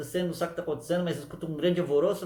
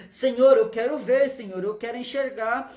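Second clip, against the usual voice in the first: pleading cry; 3 semitones higher, 4 dB louder than usual. Acted. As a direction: beg the Lord to let you see. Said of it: "E ele falou". (clamor suplicante)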